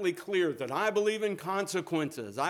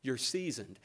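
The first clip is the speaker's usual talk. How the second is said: gentle reassurance; 3 semitones lower than usual. Retold or imitated. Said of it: "he's so gentle with her".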